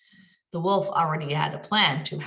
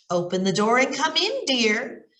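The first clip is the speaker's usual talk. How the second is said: a lightly voiced sweet granny; wolf's gentle fake granny invitation; grandmotherly voice; 4 semitones higher than usual. Wolf lures Red Riding Hood in, mildly grandmotherly. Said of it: "his best grandmotherly voice".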